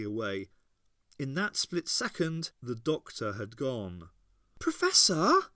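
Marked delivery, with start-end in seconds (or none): 4.6-5.5 put-on high, loud young girl voice, bitter; Ace's girl voice, cutting and bitter. A narrator's reading. Ace to Captain Sorin, bitter and high.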